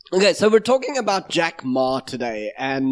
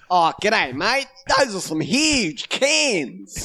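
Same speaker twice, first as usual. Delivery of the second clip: high, swooping fake New Zealand accent; mock New Zealand accent; 4 semitones higher, slower than usual. Shown as a demonstration. Host showing co-host how to do it, mock New Zealand accent. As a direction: stretch it out like a hammed-up Kiwi. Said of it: "a New Zealand accent".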